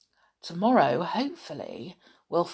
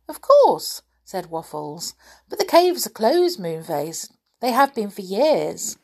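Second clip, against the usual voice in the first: rabbit voice; 2 semitones higher, 5 dB louder than usual. Acted. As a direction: squeak it up like a small rabbit. The rabbit Waffles answers Moonface.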